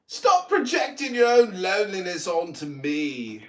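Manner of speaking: clipped-free, mocking fake English accent, even pace. Mocking a rival on Clubhouse, in a fake English accent. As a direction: scold him in a put-on English accent. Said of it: "my English accent is so mocking".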